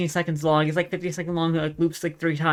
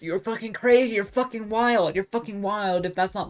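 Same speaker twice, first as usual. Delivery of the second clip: worked-up, raised-pitch insistence; losing their mind; 5 semitones higher than usual. Real, not acted. Streamer daring viewers to disagree, losing their mind. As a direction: insist excitedly, hammering the point. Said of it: "I just lose my mind".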